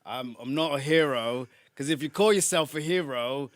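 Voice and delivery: put-on a light South London accent, bruv and all; lightly put-on South London voice; casual South London accent, half-committed. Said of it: "from South London".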